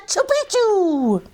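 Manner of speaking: a whispered sneeze that forms the word "Chupichu"; half sneeze. A narrator's reading. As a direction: sneeze the password out in a breathy rush. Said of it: "half sneezed, half spoke".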